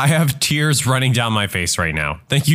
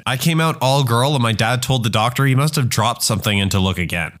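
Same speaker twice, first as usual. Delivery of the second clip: ordinary delivery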